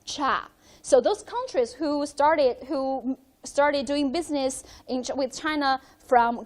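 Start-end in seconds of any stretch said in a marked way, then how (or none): 0.1-0.5 cha said as Cantonese "cha", crisp ch and open a. Shown as a demonstration. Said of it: "was pronounced as".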